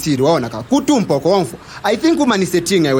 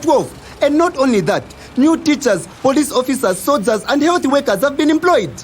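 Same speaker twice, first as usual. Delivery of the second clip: higher-pitched incredulous challenge; insistent rebuttal; 3 semitones higher than usual. Acted. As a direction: pile up the achievements, voice climbing. Challenges friend with government's achievements.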